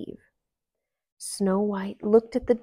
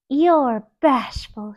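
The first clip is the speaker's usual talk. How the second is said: slow, higher teasing voice; sleepy-toned guess; 4 semitones higher, 8 dB louder, slower than usual. A narrator's reading. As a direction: tease him gently. Snow White guessing.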